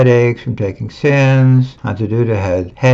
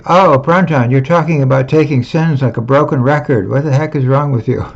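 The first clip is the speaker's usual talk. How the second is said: higher, fast, exasperated mock scolding; mocking godbrothers; 3 semitones higher, faster than usual. Godbrothers scolding Pranjan for repeating himself, exasperated mock voice. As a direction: brush him off as a nag. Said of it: "and they say".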